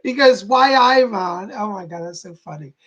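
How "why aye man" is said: light Geordie imitation, opening louder and higher; Geordie accent. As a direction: repeat it as a Geordie catchphrase. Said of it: "talking about Geordie speak".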